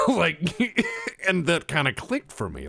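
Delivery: high, loud laughter into the words; laughing. Real, not acted. Telling friend about the developer's answer, laughing. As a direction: talk through a burst of laughter. Laughing at his own anecdote.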